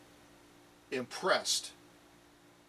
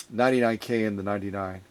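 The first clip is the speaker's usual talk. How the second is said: yawning; 5 semitones lower than usual. Real, not acted. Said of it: "that was a yawn".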